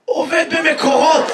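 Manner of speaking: slow, mock hoarse answer. Hoarse water worker states his job, slow imitation. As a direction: drag it out, imitating a hoarse man. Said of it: "ממה אתה צרוד".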